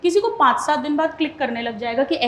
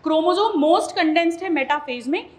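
slow demo reading; slower than usual. Shown as a demonstration. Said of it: "मैं इसे ऐसे पढ़ूंगी".

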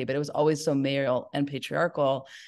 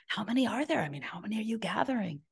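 hushed question; 6 semitones higher, 7 dB quieter than usual. Retold or imitated. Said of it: "And we're, like, whispering".

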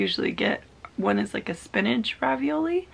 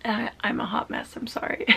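emotional. Real, not acted. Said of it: "I'm so emotional today".

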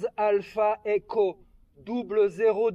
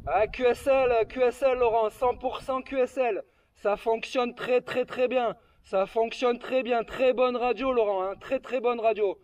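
over walkie talkie. Real, not acted. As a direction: voice through a handheld radio. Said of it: "avec mon talkie-walkie".

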